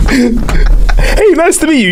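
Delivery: high, squeaky fake-polite hello; mock polite greeting. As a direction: play an overly sweet hello. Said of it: "mock polite greeting to girlfriend".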